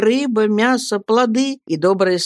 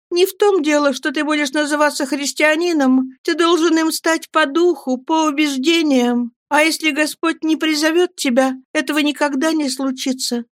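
put-on higher girl's voice, firm and earnest; earnest young woman; 9 semitones higher than usual. Girl explains to her lover he must truly believe, earnest. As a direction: plead your faith to him.

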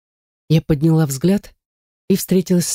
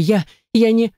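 panicked stammer; 6 semitones higher than usual. A narrator's reading.

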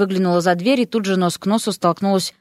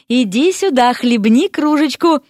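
eager, higher-pitched invitation; excited, raised-pitch urging; enthusiastic; 5 semitones higher, 3 dB louder than usual. A narrator's reading. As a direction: coax with bubbling enthusiasm. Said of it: "воодушевился Ипполит".

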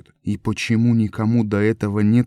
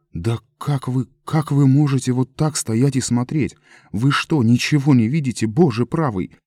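higher, louder desperate shouting at the crowd; horrified outcry; 5 semitones higher, 4 dB louder than usual. A narrator's reading. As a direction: yell at them in disbelief. Лоис в ужасе кричит на толпу. (Лоис в отчаянии кричит на равнодушную толпу, громко и высоко)

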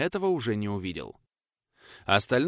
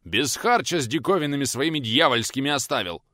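bitter; 4 semitones higher, 4 dB louder than usual. Acted. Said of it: "желчно выдавил".

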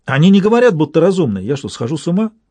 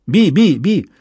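an eerie pixie-like call; нечеловеческий голосок; 3 semitones higher, slower than usual. A narrator's reading. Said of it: "Совершенно нечеловеческий был голос".

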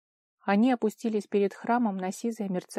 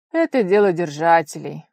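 dry, loud, clipped-off retort; curt cutoff; 9 dB louder than usual. Acted. Fiancé cutting off the friend, curt and loud. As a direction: shut the question down. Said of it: "сухо обрубил Герд".

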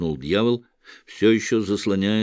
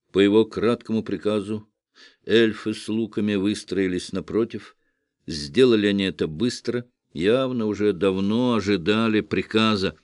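ordinary delivery, nothing marked

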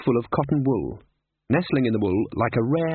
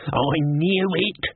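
shouting; 6 semitones higher, slower than usual. Acted. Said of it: "Albert shouted".

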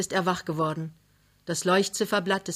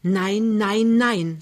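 loud, vehement objection; passionate refusal; 3 semitones higher, 6 dB louder, much slower than usual. A narrator's reading. Wife forbids husband from going along to steal, passionate and loud. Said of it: "sagt Lämmchen leidenschaftlich".

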